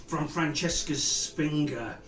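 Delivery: rhyming verse, sung-speech cadence; grand rhythmic bard. Acted. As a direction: recite like a tavern bard.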